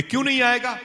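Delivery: sudden high cry of disbelief; shocked question. Retold or imitated. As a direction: shoot the voice up in shock. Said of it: "बोले". (अचानक ऊँची आवाज़ में हैरान सवाल)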